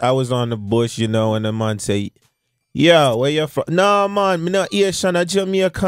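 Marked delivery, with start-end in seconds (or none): 2.7-5.9 put-on Jamaican accent. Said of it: "every Haitian learn a Jamaican accent".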